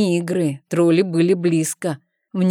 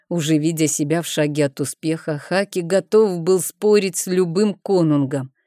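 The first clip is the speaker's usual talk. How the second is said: usual speaking voice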